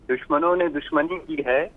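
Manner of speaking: measured poetic delivery; couplet recitation. Acted. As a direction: recite it as verse, pausing after the line.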